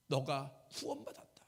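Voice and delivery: very low, soft verdict; hushed low declaration; gentle pronouncement. Acted. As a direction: grant it quietly, deep in the voice. Voices Jesus granting salvation.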